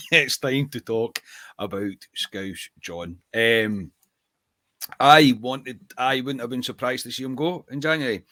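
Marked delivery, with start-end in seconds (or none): 0.1-3.2 slow, drawn-out announcement of Scouse John; slow grand announcement. Shown as a demonstration. Host to co-host introducing the topic, slow and grand. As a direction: stretch every word like an announcer.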